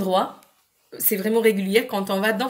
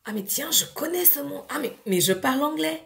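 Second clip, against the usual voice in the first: put-on child's surprise; 5 semitones higher than usual. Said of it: "vous allez voir qu'ils vont dire".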